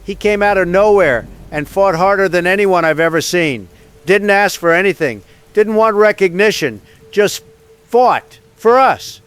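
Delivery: loud and swelling, rallying the nation; rousing loud speech. Acted. President on his last broadcast, rousing the nation loudly. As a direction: raise the voice to honour the fallen warrior.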